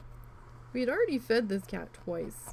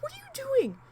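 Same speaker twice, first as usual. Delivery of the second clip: higher, louder exasperated yell; high yell at cat; 4 dB louder than usual. Retold or imitated. Owner yelling at her cat lunging at the glass, high exasperated yell.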